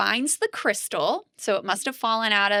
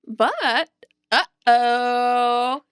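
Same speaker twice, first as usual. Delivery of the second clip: playful uh-oh; 2 semitones higher, 4 dB louder, much slower than usual. Real, not acted. Dramatic plot turn.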